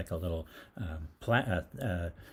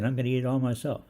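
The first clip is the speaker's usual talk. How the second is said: loud boast; 7 semitones higher, 5 dB louder than usual. Retold or imitated. Boasting to clerks.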